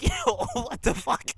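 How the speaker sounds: high, loud, drawn-out disbelief; shocked outburst. Retold or imitated. Viewer reacting to the TV scene in disbelief. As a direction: blurt it out in shock.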